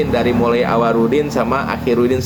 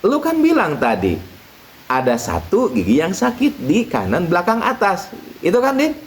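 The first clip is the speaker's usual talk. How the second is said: kiai voice; 5 semitones higher than usual. Acted. Kiai questions Udin.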